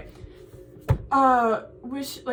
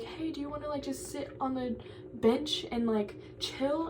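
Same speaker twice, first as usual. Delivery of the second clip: casual invite; 3 semitones higher, 6 dB quieter than usual. Retold or imitated. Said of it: "she was like".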